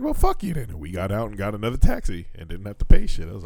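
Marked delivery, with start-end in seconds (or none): 0.0-0.7 high mock snap; retold angry retort. Retelling telling off the taxi driver, mock angry snap. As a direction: fling it back like a retold insult. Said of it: "I was like".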